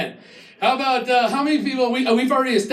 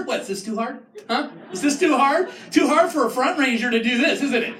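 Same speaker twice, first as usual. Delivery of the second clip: mock taunting. Taunting front range drivers.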